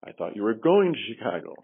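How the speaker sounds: going punched with a falling tune; stress on going. Shown as a demonstration. Trainer showing the class stress on going. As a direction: hit the word going. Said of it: "each sentence had the word highlighted".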